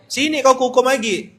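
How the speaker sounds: loud, high mock scolding; mother's threat. Mama hearing her child got punished, loud imitated scolding. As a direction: threaten like an old-time mum, high and loud. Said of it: "Apa kata mama kita?".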